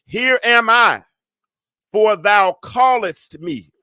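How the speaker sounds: a hint of an obedient young servant; lightly voiced Samuel. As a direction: report for duty, stretching the last words. Acts Samuel answering his master.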